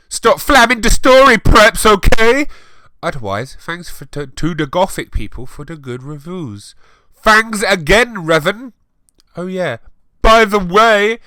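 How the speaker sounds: put-on high, loud, shrieking teen voice; mock whiny author. Reader mocking the author's note to her critics. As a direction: ham up a defensive fanfic writer.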